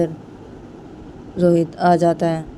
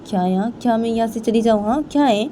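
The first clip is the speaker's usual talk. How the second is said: indignant protest; 5 semitones higher than usual. Acted. Payal refuses Rohan's order to leave.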